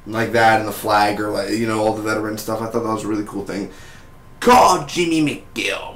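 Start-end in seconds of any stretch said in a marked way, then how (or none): 4.4-6.0 slow, pitched-up commercial pitch. Retold or imitated. Quoting Jimmy's veteran commercial, a slow, raised ad pitch. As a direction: sell it like a TV lawyer ad. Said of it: "Jimmy's commercial".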